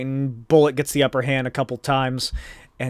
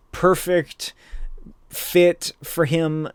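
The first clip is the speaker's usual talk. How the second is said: usual speaking voice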